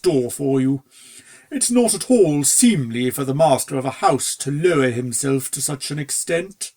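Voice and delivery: a hint of a fussy, deferential butler; humble servant gently scolding his master; lightly voiced butler. Butler Silver Cloud voiced.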